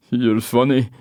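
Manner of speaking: slow, loud pushy local; Scottish pub man. Acted. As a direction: lean in and drawl the question. Man after laughing.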